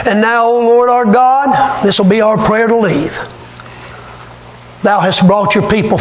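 scripture reading. Acted. Reads Daniel's prayer aloud.

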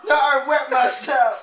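loud, slow complaint; hammed-up outrage at full voice; exasperated yell. Gamer with soda spilled on him, exasperated yell. Wailing about the spilled drink.

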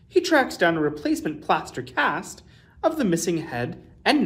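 put-on lively read-aloud for children; expressive children's story reading; storybook narration. A narrator's reading. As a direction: tell it like a bedtime picture book. Reads a picture book aloud.

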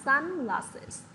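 "sunglasses" stressed on sun; first-syllable stress. Shown as a demonstration. Teacher explaining sun plus glasses, "sunglasses" stressed on the first syllable. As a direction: hit sun in "sunglasses", glasses falling away. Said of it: "nhấn trọng âm vào âm đầu tiên".

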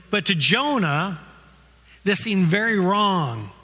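measured, unhurried Bible reading to the congregation; scripture reading. Acted. Reads Jonah chapter four aloud.

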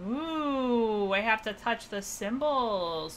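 slow, drawn-out fake awe; sarcastic ooh, dragged slowly. Real, not acted. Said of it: "Sarcastically cheeking".

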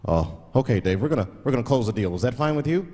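polite, proper businessman voice; mock-polite lawyer on a call; white lawyer voice. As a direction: put on a clean corporate tone.

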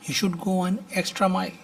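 very slow, careful teaching delivery; drawn-out classroom model sentence; slow model reading. Shown as a demonstration. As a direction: stretch each word out for the class. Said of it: "teacher models the English sentence".

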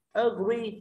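"Agree" with light ơ, rising onto GREE; stress on second syllable. Shown as a demonstration. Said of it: "rơi vào âm tiết thứ hai". (nhấn âm tiết hai "Agree")

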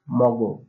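মগ said short for আমাদের; মগ, one clipped syllable; Barisal dialect word. Shown as a demonstration. Teacher gives the Barisal word মগ. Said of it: "বরিশালের ভাষা বলা হবে".

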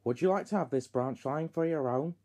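soft, gentle offer; quietly benevolent boss; kindly. A narrator's reading. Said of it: "he said kindly".

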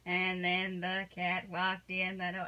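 mother demonstrating dull read-aloud, slowly; mock monotone reading. Shown as a demonstration. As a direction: drone it out like a bored reader. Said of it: "you don't want to be monotone".

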